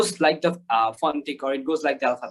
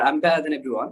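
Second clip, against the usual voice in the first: British accent demo; much slower than usual. Shown as a demonstration. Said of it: "British অ্যাকসেন্টে কথা বলছি".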